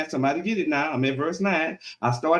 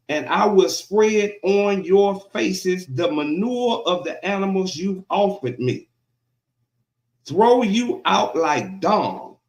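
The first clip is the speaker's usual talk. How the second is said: slow, loud scripture proclamation; slow, emphatic pulpit reading; preaching God's rebuke; 3 dB louder, slower than usual. Acted. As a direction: punch out each phrase, pausing between.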